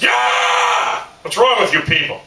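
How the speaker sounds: hype shout. Shown as a demonstration. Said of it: "It's more like this".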